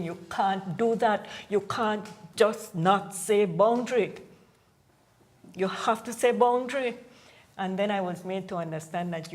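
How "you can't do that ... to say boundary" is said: insistent protest. Retold or imitated. Negotiator recalling his objection at the table, insistent protest. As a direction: reenact a firm, raised-voice demand, hitting each word. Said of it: "I was banging on the table saying".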